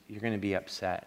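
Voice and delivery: put-on low, soft retelling of a child's warning; retold child's confession. Son warning his father he'll be upset, quiet retold confession. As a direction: quote the boy quietly.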